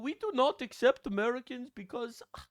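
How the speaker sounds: shouting in hammed-up broken English; mock Korean accent. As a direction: parody a furious old Korean worker. Dubbing the worker, mock.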